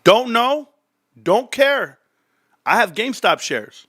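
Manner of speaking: husband brushing off wife, giddy rhyme; rhyming answer. Retold or imitated. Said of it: "I know it's rhyming".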